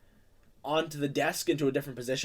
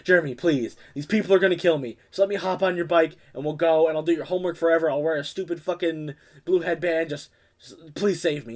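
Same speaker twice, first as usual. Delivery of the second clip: louder, rushed desperate begging; mock pleading; 2 semitones higher, 5 dB louder than usual. Cole begging Jeremy for a ride to escape, desperate. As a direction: beg him for your life. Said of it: "he's like".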